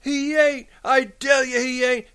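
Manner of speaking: very high, insistent cry; desperate denial. A narrator's reading. Lenny denying the rabbit, desperate high cry. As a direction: shut out the taunt desperately.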